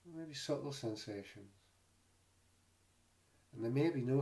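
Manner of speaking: calm, unhurried meditation guide with long pauses; guided meditation. Real, not acted. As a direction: gently guide listeners into the body, leaving space between phrases. Leads a body scan meditation.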